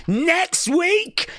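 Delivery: can't believe it's next week; astonished question. Real, not acted. Streamer repeats in rising astonishment. Surprised by title match.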